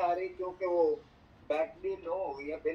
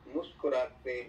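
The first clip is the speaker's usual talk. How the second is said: stately nazm recitation. Acted. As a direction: recite each line with weight and pauses. Poet reciting verses at mushaira.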